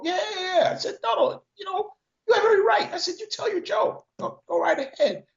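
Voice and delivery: high pitched, laughing through the words; laughing retort. Retold or imitated. Replying to the joke teller, half laughing. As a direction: chuckle it out like it still amuses you.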